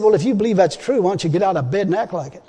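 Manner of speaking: firm retold challenge, little sympathy; no-nonsense challenge. God telling a sick believer to get up, retold matter-of-fact challenge. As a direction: challenge him without coddling. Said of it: "He spoke in that kind of a voice".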